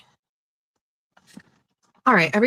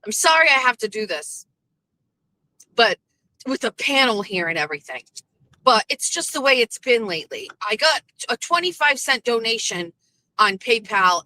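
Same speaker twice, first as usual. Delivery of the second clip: mocking Brian. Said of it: "Brian plays victim".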